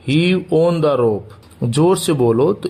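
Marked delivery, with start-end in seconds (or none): 0.1-1.3 each word slow and separate for learners; slow dictation pace. Shown as a demonstration. Teacher to Hindi students, model sentence said very slowly. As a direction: spell it out slowly so students can repeat. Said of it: "या फिर".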